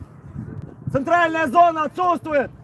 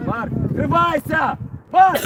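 yelling from the sidelines; 3 semitones higher than usual. Real, not acted. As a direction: snap the name out across the field. Coach calls out to player. (тренер окликает игрока)

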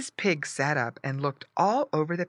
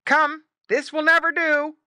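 loud, high dog command; forceful, high scolding; barked order; 13 semitones higher, 8 dB louder than usual. A narrator's reading. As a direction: bark it out as the farm dog. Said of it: "barked Don the dog".

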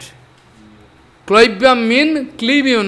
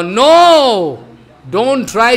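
sharp, louder no; emphatic no; 4 dB louder, much slower than usual. Acted. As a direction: cut the idea off with a firm no. Preacher forbids Arjuna's weakness.

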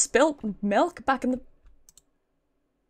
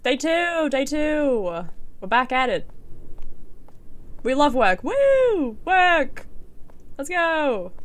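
higher, ironic whoop; mock cheer; 4 semitones higher, much slower than usual. Starting another shift at work, mock excited cheering. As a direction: fake pep for a dull job.

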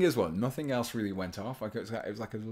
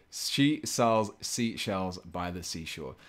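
very slow and a bit louder, each word spaced; deliberate tongue twister; 5 dB louder, much slower than usual. Shown as a demonstration. Streamer after a slip, retrying the twister very slowly. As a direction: crawl through it so it can't trip you. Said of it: "I just want to say it once".

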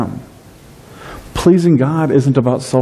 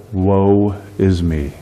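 mock lament; much slower than usual. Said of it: "could have looked at that and said".

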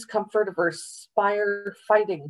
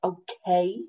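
insistent. Acted. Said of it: "bugged his eyes out".

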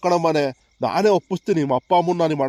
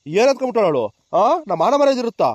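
indignant outburst, pitch climbing at the end; angry refusal; 2 semitones higher than usual. Acted. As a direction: refuse outright, with mounting indignation. Acted refusal of daughter's marriage. (ಕೋಪದಿಂದ ಖಡಾಖಂಡಿತ ನಿರಾಕರಣೆ)

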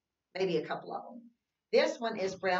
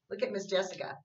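whisper; faster than usual. Real, not acted. Whispered aside to kids.

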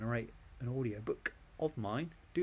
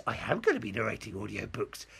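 hammed-up confirming answer in own pitch; mock-proud staged reply; amateur dramatics. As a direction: answer grandly, like a bad actor. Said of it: "it's a bit amateur dramatics".

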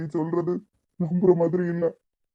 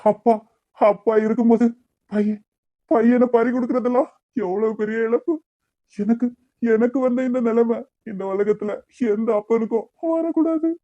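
anguished lament; 3 semitones higher than usual. Acted. Grieving father's lament.

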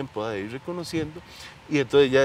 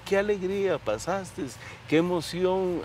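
higher, slow, delighted congratulation; joyful praise; 6 semitones higher, slower than usual. Shown as a demonstration. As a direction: praise the child with open joy. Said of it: "en vez de decirle". (alegría cálida, más aguda y lenta)

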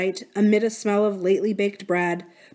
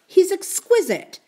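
slow; 11 semitones higher, 4 dB louder than usual. Acted. Slow high praise.

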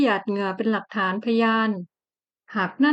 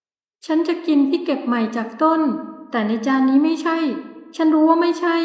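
stubborn wife; 5 semitones higher than usual. Acted. Stubborn pregnant wife insists.

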